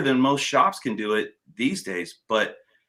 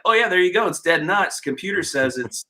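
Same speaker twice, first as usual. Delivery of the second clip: higher, smug mock shop guy; mock mechanic; 6 semitones higher than usual. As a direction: imitate the careless technician, lightly voiced. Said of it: "and it's like".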